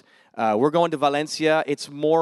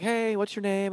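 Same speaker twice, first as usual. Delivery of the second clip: casual greeting; 8 semitones higher, 4 dB quieter than usual. Retold or imitated. Retold opener to a stranger.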